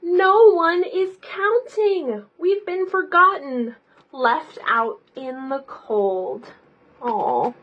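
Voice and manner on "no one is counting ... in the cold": slow, higher, forlorn voice; sad characters. Acted. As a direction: sound lost and forgotten. Numbers voiced sadly.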